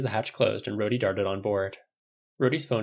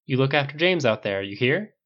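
serious; 4 semitones higher, 4 dB louder than usual. Acted. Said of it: "said seriously".

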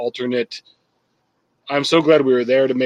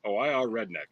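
mock redneck; 3 semitones lower than usual. Joking dumb redneck voice.

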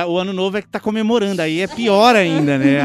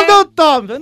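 higher, louder defiant yell; stubborn yell; 8 semitones higher, 7 dB louder than usual. Acted. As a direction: shout back stubbornly. Acting an anti-vax relative.

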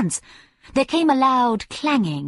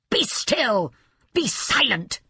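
shriek; 3 semitones higher, slower than usual. A narrator's reading. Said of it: "shrieked the wizard".

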